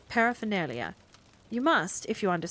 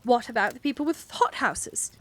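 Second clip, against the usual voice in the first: indignant rant; 3 semitones higher than usual. Acted. Miss Price rants savagely.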